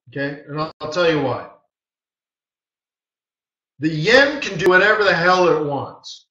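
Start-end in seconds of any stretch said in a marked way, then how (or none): 3.8-6.3 emphasis on HELL with a firm push; emphatic. Real, not acted. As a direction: drive home "whatever the hell it wants". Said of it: "I'm using swearing to emphasize".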